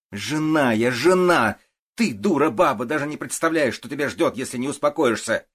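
high, loud outburst at the policewoman; shrieking furious accusation; flaring up shrill. A narrator's reading. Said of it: "взвилась Ставицкая".

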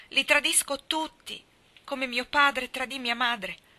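high and loud, slowing at the end; despairing cry. A narrator's reading. Mally confesses her betrayal to Herr Sörensen, despairing cry. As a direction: wail the confession. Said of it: "gridò".

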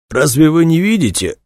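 high, strained retort; hoarse croak. A narrator's reading. Choked man answers the stern intruder, croaking. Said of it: "прохрипел Дронга".

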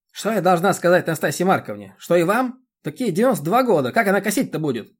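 high, loud scolding village busybody; a bossy chairwoman lecturing; indignant chairwoman. Acted. The chairwoman berates Roman about mowing, high and loud.

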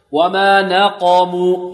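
slow chant, light nun, heavy qaf; correct tajweed recitation. Shown as a demonstration. Teacher modelling the verse for students, correct slow recitation. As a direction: recite it slowly with a thin nun in نقموا. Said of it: "أو نرقق النون".

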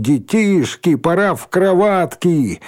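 mock tender. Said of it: "притворно ласковым голосом".

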